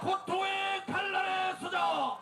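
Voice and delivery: slow drawn-out chanted slogan; roaring rallying speech. Real, not acted.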